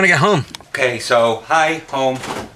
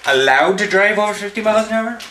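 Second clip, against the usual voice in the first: incredulous; 6 semitones higher than usual. Retold or imitated. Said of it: "And I was like".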